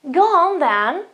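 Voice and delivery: high, loud, swooping 'go on then'; punchy acceptance of a request; emphatic agreement. Shown as a demonstration. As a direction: agree with real emphasis, pitch leaping. Repeats the example with emphasis.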